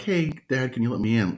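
mock pleading dog voice; dog's whine as words. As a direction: voice the dog begging at the door. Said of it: "Not a kind of cry like".

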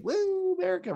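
high whooping cheer, hamming up the patriotism; American hype yell. Retold or imitated. Cody hamming it up for America with a high woo. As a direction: woo it up like a flag-waving wrestler. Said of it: "plays up the American thing".

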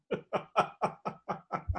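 high, quiet chuckle; laugh. Real, not acted. Storyteller amused by his own punchline, soft high laugh.

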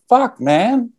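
high, drawn-out mock exasperation; retold upset. Comedian upset at the storyteller over missing weed, mock exasperated. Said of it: "he was really upset".

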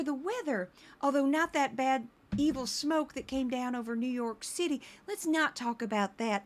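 lightly voiced sweet morning-show host; mild imitation of a chummy TV host; Ansley Earhardt. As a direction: play everybody's best friend, lightly mocking. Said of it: "Ansley Earhardt would walk in and she'd be like".

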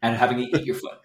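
sassy threat. Acted. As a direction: threaten with playful sass. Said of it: "I want my robot to have a little sass".

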